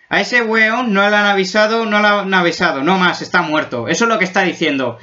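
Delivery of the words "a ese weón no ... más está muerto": put-on Chilean accent. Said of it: "Yo creo que está diciendo más bien".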